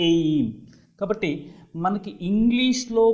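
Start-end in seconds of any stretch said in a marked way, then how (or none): 0.1-0.5 "ఎయిమ్" with a clear glide from e to i; EY diphthong. Shown as a demonstration. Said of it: "ఏయ్ అనేటటువంటి శబ్దాన్ని".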